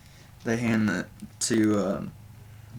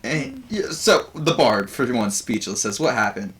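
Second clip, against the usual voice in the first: raised, louder comic bard voice; bard doing stand-up; 5 semitones higher, 4 dB louder than usual. Acted. Game master voices the bard Buvor greeting the audience, higher and louder. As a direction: Buvor working the crowd as a nervous comedian. Bard telling a flood joke.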